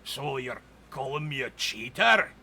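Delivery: a touch of a growled challenge; menacing dwarf. Acted. Dwarf boss confronting the elf over cheating, mildly menacing. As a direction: lean in and threaten the elf. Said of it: "angry-faced ... glowers at you and he says".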